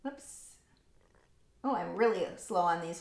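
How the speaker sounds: ordinary talk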